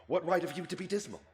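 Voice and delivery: cheerful teasing. Acted. Nephew teases uncle merrily.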